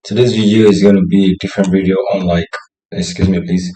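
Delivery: hoarse, throat hurting; sore throat voice. Real, not acted. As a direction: speak through a sore throat. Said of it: "I'm having a sore throat somehow and it's hurting me".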